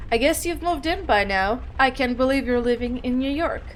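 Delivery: gently voiced mom; old-sounding mother. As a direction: read it as a mother, only lightly aged. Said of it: "old sounding".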